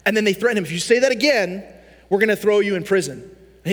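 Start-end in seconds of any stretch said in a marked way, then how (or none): 0.6-3.2 mock threat. Guards threaten Paul in retelling.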